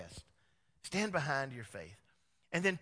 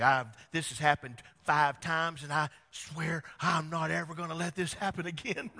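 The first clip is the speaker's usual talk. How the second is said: fed-up vow; 6 dB louder than usual. Retold or imitated. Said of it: "It's like".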